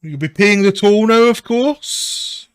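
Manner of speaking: loud, high, cheery gang boss; falsely friendly toll collector, big and bright; bright greeting. Acted. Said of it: "sort of greets you brightly".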